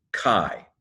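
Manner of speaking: CHI said as "kai", rhyming with eye; pronounced as one word. Shown as a demonstration. Teacher shows the pronunciation, "chi" said as one syllable "kai". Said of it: "It's pronounced".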